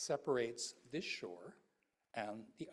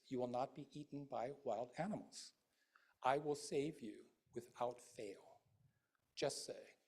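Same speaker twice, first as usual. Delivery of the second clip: calling Amida. Acted. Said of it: "you hear the calling voice of Amida".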